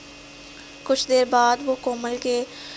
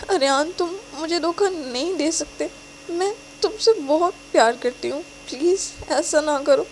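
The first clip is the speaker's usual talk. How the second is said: desperate plea; 4 semitones higher than usual. Acted. Desperate plea after block.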